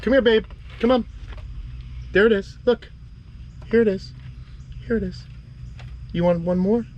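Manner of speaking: calling a pet. Real, not acted. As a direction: coax her up, very high. Calling lizard to food.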